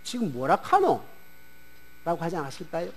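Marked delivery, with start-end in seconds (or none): 0.0-1.0 put-on lightly Gyeongsang-accented puzzled question; 경상도 사투리로 어리둥절하게 묻기; Gyeongsang dialect. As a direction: ask it like a confused Gyeongsang fisherman. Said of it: "경상도 사람이 들었다면 뭐라고 할까요?".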